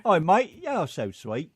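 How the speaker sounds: put-on laughing British-Tennessee mishmash accent. Co-host teasing back in British Tennessee, laughing. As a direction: open loud and high, British mate meets Tennessee. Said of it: "Do a British Tennessee accent".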